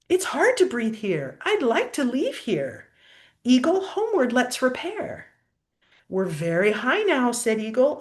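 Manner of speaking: lilting rhyming storybook read; reading to a child. A narrator's reading. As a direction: read the verses aloud to a little one. Reads rhyming picture book aloud.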